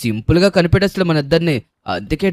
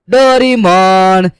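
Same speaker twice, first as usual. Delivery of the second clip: drawn-out call; 4 dB louder, much slower than usual. Acted. Seeker calls out in hide-and-seek.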